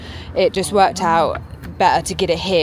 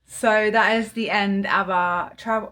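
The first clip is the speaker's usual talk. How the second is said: slow, oddly drawn-out phrasing; said weirdly; slower than usual. Real, not acted. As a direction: stretch it out in a strange lilt. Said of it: "I said that really weirdly".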